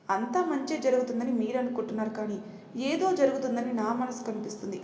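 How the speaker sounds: uneasy, doubting echo of అంతా మంచే; doubtful. Acted. Vijay doubts his father's words, uneasy musing.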